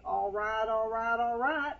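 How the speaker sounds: lightly voiced "all right" drawl, rising each time; a hint of McConaughey's catchphrase; Matthew McConaughey impression. Pastor giving a light McConaughey impression. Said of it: "you would probably think of Matthew McConaughey".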